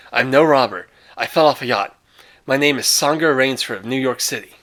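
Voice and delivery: earnest explanation under a pointed gun; lightly voiced anxious stranger; Rainsford pleading. Rainsford explains himself at gunpoint.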